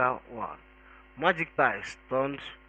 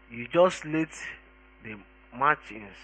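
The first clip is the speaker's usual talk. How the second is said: warning. Acted. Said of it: "warned Magic Ties".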